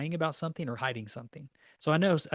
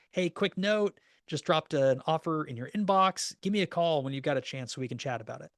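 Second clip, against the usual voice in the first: easygoing text. Shown as a demonstration. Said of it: "then I'm gonna send them a text".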